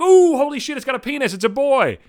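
high, loud gasp of fake shock; hammed-up delivery-room shock; mock shocked squeal. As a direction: squeal like the baby just surprised you. Mocking surprised new mother.

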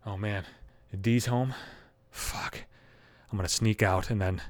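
hushed, barely voiced whisper; creeping-out murmur; sneaky whisper. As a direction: whisper so nobody in the house hears. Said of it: "you wouldn't hear me".

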